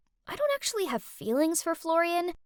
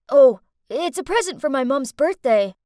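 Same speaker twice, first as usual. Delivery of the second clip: blushing shyly; 9 dB louder than usual. Acted.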